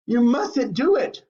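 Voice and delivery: loud, slow, high warning; urgent warning. A narrator's reading. Mister Wonka begging Violet to spit the gum out, loud. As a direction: stop her with a loud plea. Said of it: "wringing his hands and saying".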